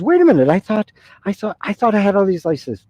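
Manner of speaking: high-pitched, startled stammer; bewildered protest. Acted. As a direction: play a flustered man caught off guard. Excited man objects, puzzled by glory.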